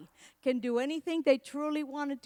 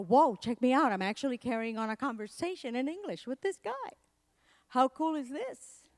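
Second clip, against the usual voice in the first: delighted surprise. Retold or imitated. Realising mid-chat with his professor that he speaks English, thrilled. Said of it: "I go".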